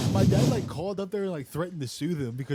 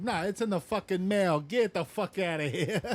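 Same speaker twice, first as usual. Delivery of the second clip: higher-pitched, scornful manager impression; mock dismissal; 4 semitones higher than usual. Manager refusing paycheck in person, mock irritation. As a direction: imitate a manager waving them away, drawing out the end.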